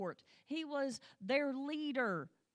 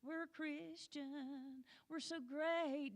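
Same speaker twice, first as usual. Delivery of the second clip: mock smug self-praise; 4 semitones higher, 5 dB quieter, much slower than usual. Mocking smug Christians' self-praise.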